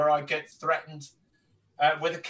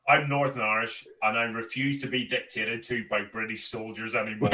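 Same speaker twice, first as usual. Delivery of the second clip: put-on low Northern Irish accent, understated defiance; old-school Northern Irish; 4 semitones lower, 3 dB quieter than usual. Comedian retells defying a soldier in the crowd, old-school Northern Irish accent. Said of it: "I went this route".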